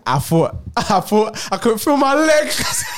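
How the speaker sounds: laughing through words; slow laughing telling. Real, not acted. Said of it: "laughing while telling".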